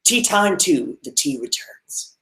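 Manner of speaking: slow, hushed trailer announcement; ominous title card read; dramatic movie-title voice. Shown as a demonstration. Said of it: "or sorry".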